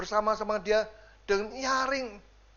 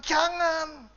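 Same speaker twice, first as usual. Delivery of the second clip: Holy Spirit says no; 8 semitones higher, 3 dB louder than usual. Acted. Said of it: "Roh Kudus katakan".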